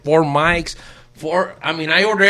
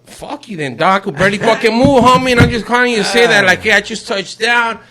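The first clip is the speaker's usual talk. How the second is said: retold angry phone rant; 5 semitones higher, 5 dB louder than usual. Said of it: "But I was like".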